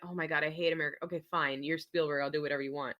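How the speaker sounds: low, resigned mock grumble; grudging agreement. Actor giving in to famous director, low grudging voice. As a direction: give in reluctantly, voice dropped.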